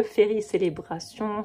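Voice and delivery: "Ferry Célébration" in a deliberately French accent, "Ferry" with French vowels, "Célébration" fully French; a mock-proud French take on an English book title. Shown as a demonstration. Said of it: "c'est avec un bel accent français".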